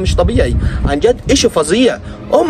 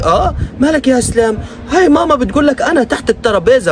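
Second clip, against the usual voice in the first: exasperated shout; 5 semitones higher than usual. Retold or imitated. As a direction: yell the obvious at him. Mocking the clip, exasperated.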